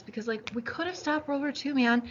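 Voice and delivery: worked up, pitch climbing at the end; real frustrated passion, rushed then rising; passionate. Real, not acted. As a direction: get carried away by what could have been. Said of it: "I just feel so passionate about this".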